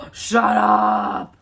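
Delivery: loud, drawn-out astonished exclamation; thrilled disbelief. Real, not acted. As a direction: blurt it out after a gasp. Gasp at a thrilling find.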